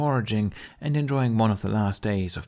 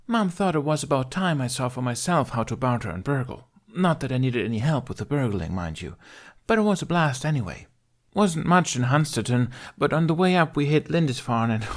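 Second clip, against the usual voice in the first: high voice full of swagger; proud, arrogant girl; 5 semitones higher than usual. Acted. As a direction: boast about the raid. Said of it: "Pride bordering on arrogance seeped into her voice".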